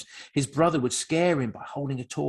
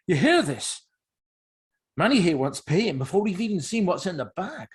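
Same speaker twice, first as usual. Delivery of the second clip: higher-voiced scoffing crook; lightly voiced crook, scoffing to a partner; mocking crook; 4 semitones higher, 4 dB louder than usual. A narrator's reading. Crook telling partner about Manny's demand for payment, scoffing.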